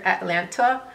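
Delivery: "Atlanta" said the way locals say it; "Atlanta" in the local Georgia way; local pronunciation. Shown as a demonstration. Telling viewers where she lives, "Atlanta" as locals say it. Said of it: "as they say here".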